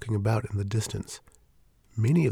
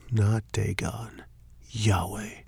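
hushed; much slower than usual. Acted. Grim revelation.

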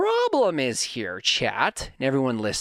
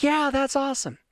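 pitched up, happy approval; excited praise; 10 semitones higher than usual. Retold or imitated. Son praising his satisfied dad on the phone, excited. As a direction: lift your voice in delighted praise.

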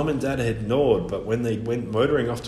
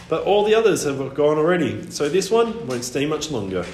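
raised, offhand bird voice; albatross voice; 4 semitones higher, 4 dB louder than usual. Acted. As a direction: warn lazily as the old bird. Albatross speaks.

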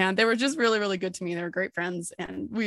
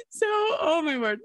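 awed exclamation; 8 semitones higher, slower than usual. Real, not acted. Overwhelmed by goddess of vault.

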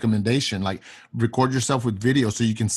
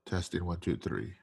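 much lower, softer nasal test; nose pinched; 5 semitones lower, 13 dB quieter than usual. Shown as a demonstration. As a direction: talk with your nose pinched. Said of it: "You pinch your nose".

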